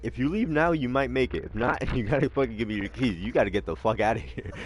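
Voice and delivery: hammed-up warning with a laugh; urgent ultimatum. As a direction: dealer telling the buyer to hurry home. Retold dealer giving ultimatum.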